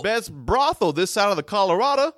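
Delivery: folksy townsfolk voice. Pretend. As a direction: brag like an old-west local. Townsfolk voice boasting.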